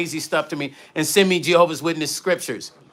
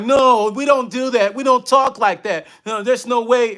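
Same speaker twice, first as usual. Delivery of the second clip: lightly voiced church folks saying no way; mock Witness denial; 5 semitones higher than usual. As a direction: play them waving it off in disbelief. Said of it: "They're like".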